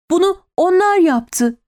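high-pitched accusing cry; anguished outcry. A narrator's reading. Terrified woman's outcry.

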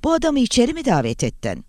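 high-pitched, alarmed disbelief; fearful question. A narrator's reading. Langdon questions Catherine about her guest, fearful and high. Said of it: "Langdon'ın sesi korku doluydu".

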